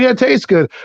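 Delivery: imitated friend. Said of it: "He's like".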